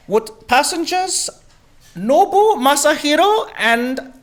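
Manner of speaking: high, slow PA announcement voice; mock airline PA call to passengers; flight attendant announcement. Flight attendant paging passengers over the mic, slow and high. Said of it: "the flight attendant makes an announcement".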